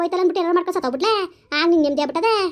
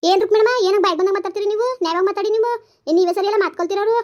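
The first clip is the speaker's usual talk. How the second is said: higher-pitched, heated objection; indignant protest; 4 semitones higher than usual. Acted. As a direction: stand up for your husband, voice raised in pitch. Wife defends husband in quarrel. (ಕೋಪದಿಂದ ಆಕ್ಷೇಪಿಸುವ ಧ್ವನಿ)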